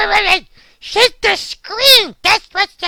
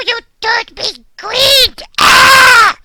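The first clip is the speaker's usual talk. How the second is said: slow, loud accusing yell; outraged shout; 4 dB louder, much slower than usual. Acted. Dog yelling at the fingers for turning him green. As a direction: blame them loudly.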